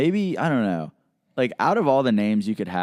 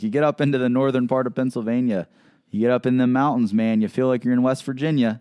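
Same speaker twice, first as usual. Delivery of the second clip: badly faked northern Pennsylvania accent, pitched up; terrible northern accent; 3 semitones higher than usual. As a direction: do a bad northern Pennsylvania local. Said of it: "This is a terrible northern accent".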